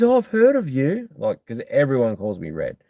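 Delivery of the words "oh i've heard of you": imitating her. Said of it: "She goes".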